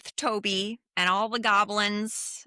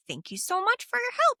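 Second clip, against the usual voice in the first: sweet thanks; 13 semitones higher, faster than usual. Retold or imitated. Heroine thanking the worm.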